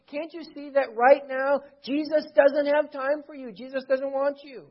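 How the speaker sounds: high, loud, impatient telling-off; stern rebuke. Acted. Disciples silencing the blind man, rebuking. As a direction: shoo a nuisance away with hammed-up irritation. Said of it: "rebuked him, told him to be silent".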